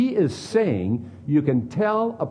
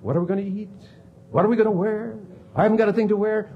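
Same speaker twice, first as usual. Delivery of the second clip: mock fretting; 8 semitones higher, much faster than usual. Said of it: "when you say".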